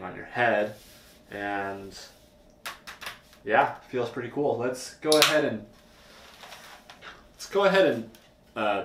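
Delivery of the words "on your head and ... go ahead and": speaking behind a chin bar; slightly muffled through helmet; wearing a full-face helmet. Real, not acted. Seen 5: Chin-bar helmet worn over face the whole time; removed by 12.9.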